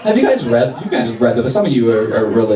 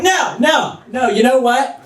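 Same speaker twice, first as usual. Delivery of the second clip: mock passive-aggressive martyr, pitched up; sassy Jesus; 4 semitones higher, slower than usual. Comedian playing Jesus to the crowd, sassy and passive-aggressive. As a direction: sigh it out like a put-upon saint. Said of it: "He was just being a sassy, passive-aggressive bitch".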